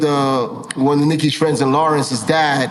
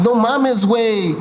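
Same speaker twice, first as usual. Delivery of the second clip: higher-pitched Mexican accent imitation; mock Mexican accent; 5 semitones higher, much slower than usual. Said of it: "You sound like, you know, no mames".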